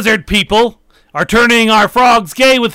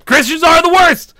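mock Alex Jones rant; 5 semitones higher than usual. Alex Jones character ranting.

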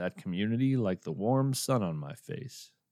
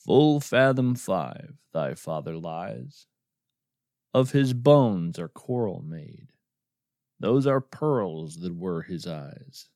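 slow, measured verse reading; unhurried poetry reading; poem recital. Acted. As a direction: lightly intone the old verse. Recites Shakespeare verse as postscript.

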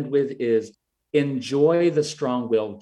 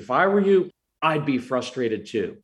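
with intensity. Shown as a demonstration. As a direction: acknowledge the feeling with real intensity. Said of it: "I just said".

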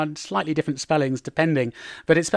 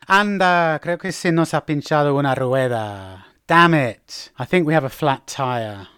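mildly exasperated, falling tune; annoyed exclamation, then resigned; irritated. Shown as a demonstration. Driver discovering a flat tire, irritated. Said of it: "to express irritation".

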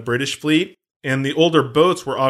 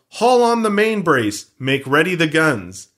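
pirate yell; 4 dB louder, slower than usual. Retold or imitated. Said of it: "Barbossa then yells".

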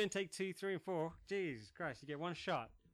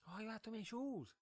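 mock girlfriend voice; 6 semitones higher, 4 dB quieter than usual. Mocking the shopping girlfriend.

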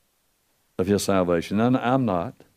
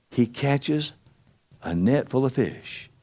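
ordinary delivery

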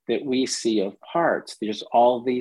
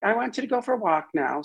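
brushing-off voice; 9 semitones higher, faster than usual. Retold or imitated. Dismissing the panicking part.

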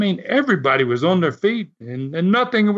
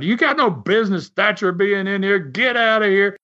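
retold screaming; 4 semitones higher than usual. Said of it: "Carson starts screaming at Les".

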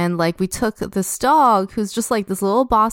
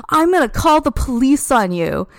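mock threat; 5 semitones higher than usual. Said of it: "She's like".

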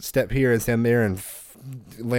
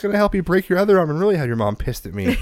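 much higher, louder, laughing refusal; exasperated no; 9 semitones higher, 4 dB louder than usual. Retold or imitated. Dad refusing to put his son on the car, high laughing exasperated no. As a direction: shout it out in amused exasperation.

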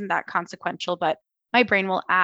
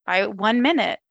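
mocking her anxious self; 5 semitones higher, slower than usual. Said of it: "You started with".

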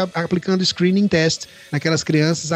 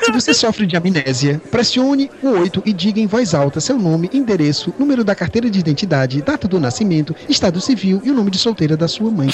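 customer service voice. Retold or imitated. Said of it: "atende a secretária eletrônica dizendo".

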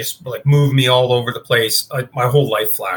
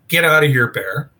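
mild mock yell, raised then dropping away; retold yell; 3 semitones higher than usual. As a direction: re-enact yelling off a bear, held back. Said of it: "So I yelled".

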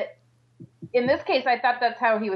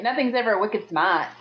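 put-on a touch of Boston accent, dropping the R; lightly mock a Boston accent. Co-host joking that nobody on the show sounds local, mock Boston accent. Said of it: "has a Boston accent".

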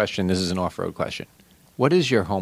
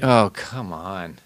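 mock exasperation; 2 semitones lower, much slower than usual. Protesting at a colleague's tease.

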